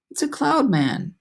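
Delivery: high, slow fearful wail; frightened cry. A narrator's reading. Miss Spider spotting the cloud men, high fearful cry. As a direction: cry it out in dread. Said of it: "Miss Spider cried".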